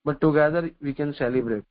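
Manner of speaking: very slow, word by word; slow maxim. Acted. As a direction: spell out the lesson slowly for the listeners.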